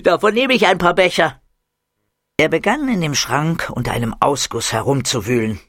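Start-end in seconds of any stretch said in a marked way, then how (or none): 0.0-1.4 put-on high, loud eager boy; excited kid. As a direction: bounce with greedy joy. Muki voiced excited. (Muki will gierig Becher voll, laut und hoch)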